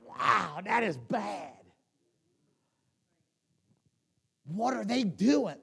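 booming, disgusted voice from heaven; God peering down at a rock-concert church, loud and dismayed; God's voice. Pretend. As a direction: play God looking down, loud and appalled. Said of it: "God leans over heaven and goes".

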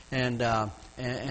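ordinary talk

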